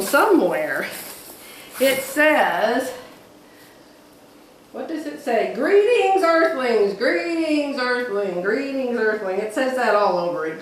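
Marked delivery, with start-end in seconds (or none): 5.5-9.4 playful alien greeting. Pretend. Reading the fabric's alien print.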